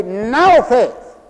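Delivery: "Now" high, loud and emphatic; stress on NOW. Shown as a demonstration. Preacher showing how faith must be said, stress on NOW. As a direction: hit "Now" hard in full preaching voice. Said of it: "so you gotta say".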